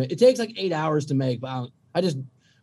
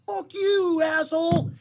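angry driver yelling; 12 semitones higher, slower than usual. Retold or imitated. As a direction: bellow it at the other car. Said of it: "He's like".

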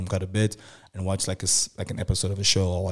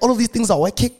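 much higher and louder, thrilled; a thrilled inner squeal; giddy triumph; 13 semitones higher, 5 dB louder, faster than usual. Retold or imitated. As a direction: squeal it like a plan coming together.

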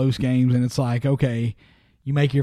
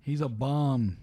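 whispered aside; 8 dB quieter, slower than usual. Real, not acted. Teasing aside to listeners.

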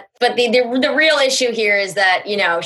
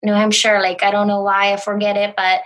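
lightly imitated confused excuse; a hint of an affected, confused celebrity; Hilaria. Comic recalling her viral video, lightly imitated confusion. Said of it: "I did an impression of Hilaria".

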